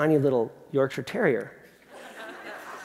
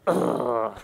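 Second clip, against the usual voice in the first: dog's grudging sigh; 4 dB quieter than usual. Retold or imitated. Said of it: "puts it down like".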